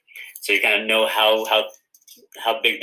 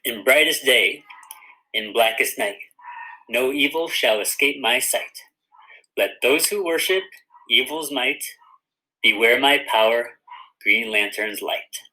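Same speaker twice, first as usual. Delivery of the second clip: oath recitation. Shown as a demonstration. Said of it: "Let's say it one more time".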